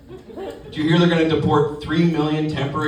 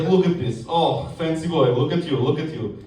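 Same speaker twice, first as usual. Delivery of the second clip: Russian coworker. Acted. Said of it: "I work with a guy from Russia".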